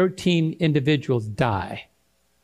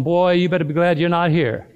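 laughing mock threat. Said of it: "I told him".

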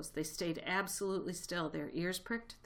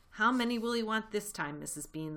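raised voice, calling upstairs; shouted; 5 semitones higher, 5 dB louder than usual. A narrator's reading. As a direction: call up to the mistress, louder and higher. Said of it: "the woman shouted".

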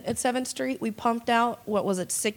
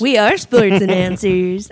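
slow, much louder announcer call; sports announcer voice; 9 dB louder, slower than usual. Pretend. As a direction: boom it out like a ring announcer. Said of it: "I've had that voice all day".

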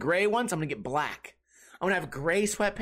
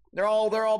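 ordinary talk, nothing marked

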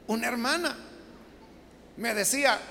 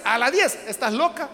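louder, outraged mother; a mother appalled, snapping back; shocked mother; 2 semitones higher, 6 dB louder than usual. Acted. Mother scolding her daughter over curfew, shocked.

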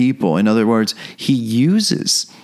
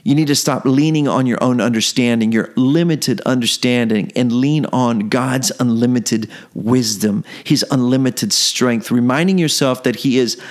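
higher, rising exhortation, listing God's names; building preaching; 4 semitones higher than usual. Acted. Preacher urging the struggling listener to lean on God, building. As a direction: lift the listener up with each line.

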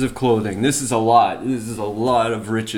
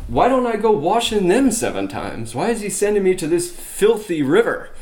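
indignant scoff; 5 semitones higher than usual. Retold or imitated. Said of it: "So he's saying".

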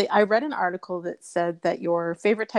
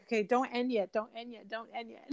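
pleading; 2 semitones higher, 9 dB quieter than usual. Retold or imitated. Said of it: "It's like that church service where you're like".

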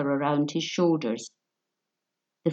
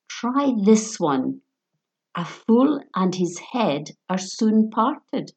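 cold menacing thief; 4 semitones higher, slower than usual. Acted. Thief threatens at knifepoint.

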